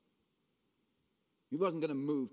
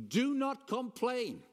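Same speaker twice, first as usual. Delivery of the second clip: emphatic command; 11 semitones higher, 5 dB louder, slower than usual. Real, not acted. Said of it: "urging the congregation".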